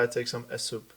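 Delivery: mock Spanish accent, "S soup" for soup. Acting a Spaniard ordering soup, Spanish accent. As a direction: put an E before "soup", like a Spaniard. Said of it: "everything's E in front".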